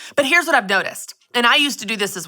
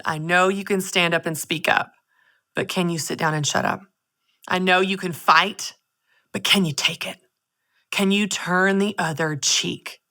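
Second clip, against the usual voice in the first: gentle voice of God; 3 semitones lower than usual. Retold or imitated. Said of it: "this gentle whisper of words".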